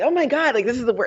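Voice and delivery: mock-dramatic dismay, starting high. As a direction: exclaim in imitation of an overwrought heroine. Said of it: "dramatic, like".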